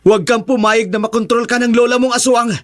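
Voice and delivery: high-pitched, urgent appeal; earnest, strained-high pleading; pleading hero. Acted. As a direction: plead with a possessed friend to resist. Andrew pleads with possessed Sarah.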